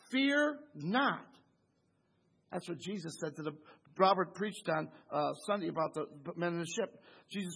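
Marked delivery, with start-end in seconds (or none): 0.1-1.2 Joseph's reassurance. Acted. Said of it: "Joseph said unto them".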